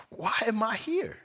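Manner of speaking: high-pitched, excited wondering; wonder and curiosity. Shown as a demonstration. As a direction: ask it as an exciting open question. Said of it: "more with a sense of wonder and curiosity and even excitement".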